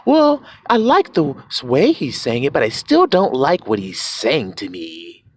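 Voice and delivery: low, reluctant objector; imitated listener. Listener still disliking the message, low mock grumble.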